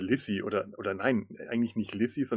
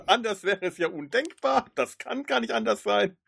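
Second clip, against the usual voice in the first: sarcastic agreement; 11 semitones higher than usual. Pretend. Mock agreement with conspiracy theory.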